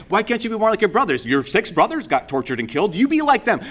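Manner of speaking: high, rising nag, climbing on the last line; nagging mom. Acted. Preacher voicing a nagging mother, pitch climbing high. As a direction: whine it like a comparing mother. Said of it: "here's a mom, you can see her".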